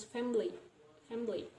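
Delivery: "family" in two syllables, fam-ly; deleted i. Shown as a demonstration. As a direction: drop the middle i of "family". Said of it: "So we delete it".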